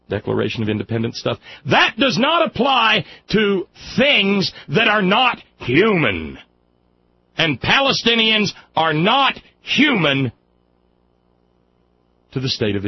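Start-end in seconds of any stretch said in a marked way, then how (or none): 1.7-6.4 real indignant shout; angry shout. Real, not acted. Angry rant on denial. 7.4-10.3 slow, hammered not human; outraged emphasis on not; stress on not. Real, not acted. Angry rant on denial.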